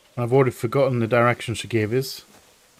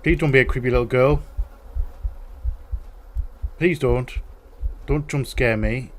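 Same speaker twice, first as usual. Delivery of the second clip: quick nervous pleading; scared horror game streamer. Real, not acted. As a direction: beg the game not to scare you. Begs game not to scare.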